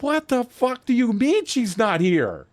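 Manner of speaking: acted-out exasperated challenge; retold disbelief. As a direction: stretch out the indignant question. Retold argument over missing passenger.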